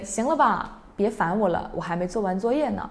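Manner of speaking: plain. Shown as a demonstration. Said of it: "And you can say".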